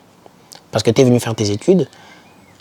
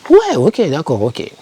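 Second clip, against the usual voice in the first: mock agreement; 5 semitones higher, slower than usual. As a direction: play exaggerated acceptance, swooping down from high. Mock reply to the naysayers. (faux acquiescement, attaque très aiguë)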